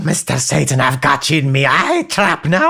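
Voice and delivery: deep gloating voice. Acted. Gloating over the phone line.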